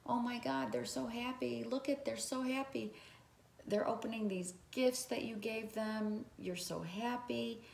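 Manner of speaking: high, soft, delighted gushing; joyful gushing. Pretend. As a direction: gush with happiness as if watching loved ones open gifts. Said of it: "You feel like this".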